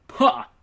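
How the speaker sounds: "pa" barked high and loud; "pa" snapped out sharply. Retold or imitated.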